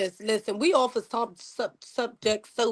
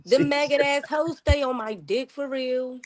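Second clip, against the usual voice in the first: slow lyric quote, lightly voiced; drawn-out rapper quote, half-rapped; a rapper; slower than usual. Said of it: "the rapper says".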